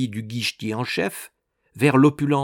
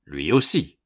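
articulated; 7 semitones lower than usual. A narrator's reading. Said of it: "articula Pistolet".

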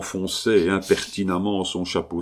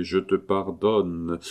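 solemn slow pardon; slower than usual. Acted. Blessing over dead wife.

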